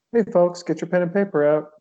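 mock show host. Hamming up a host intro for the guest's exorcism story. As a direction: play the cheesy host rallying the crowd.

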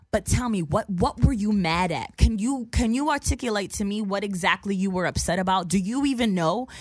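pointed, emphatic questioning; retold confrontation. Woman demands the dude explain his anger, pointed. Retelling how she confronted him.

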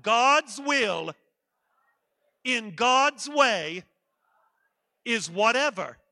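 loud, emphatic chant in slow, spaced phrases; really loud. Shown as a demonstration. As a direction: boom it out for the crowd to echo. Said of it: "I want you to say it really loud".

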